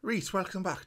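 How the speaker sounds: put-on a stab at a Geordie accent that drifts Irish or Welsh; quick trial Geordie accent, not quite landing; attempted Geordie accent. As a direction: try the Geordie accent and miss a little. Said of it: "No, it sounds Irish or Welsh".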